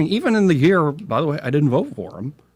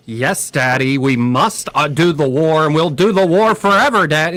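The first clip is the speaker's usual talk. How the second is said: mock-obedient child to Daddy, building louder and higher; fawning yes-man; 3 semitones higher, 4 dB louder than usual. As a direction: gush with exaggerated devotion, rising to "forever". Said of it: "I'm not sitting there going".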